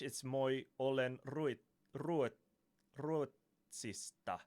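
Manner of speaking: halting Finnish "moi olen ruotsista", stumbling on "ruotsista"; struggling Finnish. Shown as a demonstration. Trying Finnish phrase for Finnish viewers, halting pronunciation. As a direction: sound out the Finnish word bit by bit. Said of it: "That was the hardest word ever".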